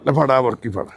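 usual speaking voice

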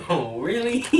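echoing it through laughter; teasing copy while laughing; laughing mimic. Echoes friend laughing.

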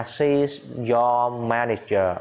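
slow, drawn-out teaching delivery; slow model answer. Shown as a demonstration. Teacher answers the office question for students, slowly. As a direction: take the answer slowly, word by word.

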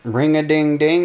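slow, sing-song phone greeting. Pretend. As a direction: drawl it out playfully.

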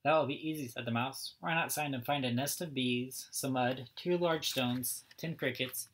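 lively storybook read-aloud, each character lightly voiced; reading to children. A narrator's reading. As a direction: read it like story time for little kids.

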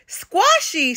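put-on high baby giant squeal. A narrator's reading. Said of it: "squealed the little giant".

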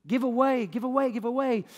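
loud, high repeated urging; urgent exhortation. Acted. Preacher voicing God urging people to give, urgent exhortation. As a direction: press each repeat home like a preacher.

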